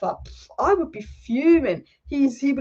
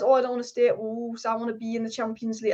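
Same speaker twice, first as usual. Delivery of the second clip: badly faked Portuguese accent on a player; put-on accent, meant as Portuguese but way off; botched Portuguese accent; 3 dB quieter than usual. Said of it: "I don't know what the accent is".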